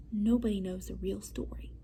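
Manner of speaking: hushed whisper, letting them in on it; secret whisper. Acted. Teacher whispering the secret to the class.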